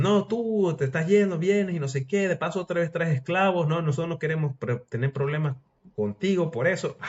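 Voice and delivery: annoyed settlers scolding. Acted. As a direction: confront him, pitch up and push. Settlers confronting Colón.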